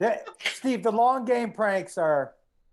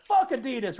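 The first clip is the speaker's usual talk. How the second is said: higher, half-shouted retold outburst; mock defiance; 5 semitones higher than usual. Retelling the friend's text after each purchase, mock defiant. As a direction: imitate a friend defiantly cursing the brand.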